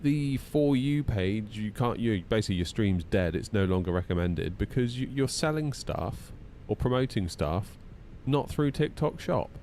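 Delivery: lightly voiced smug company; mock corporate voice. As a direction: parody TikTok's notice. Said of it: "TikTok are like".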